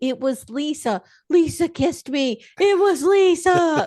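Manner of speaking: high, drawn-out, protesting yell. Retelling what a man yelled as he was escorted out, retelling a yell. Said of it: "he's yelling".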